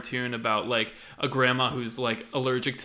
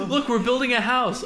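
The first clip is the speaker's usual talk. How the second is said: much higher, loud laughing vlogger; 11 semitones higher, 6 dB louder than usual. Pretend. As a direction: show off the build like a gamer. Mocking Minecraft vlog.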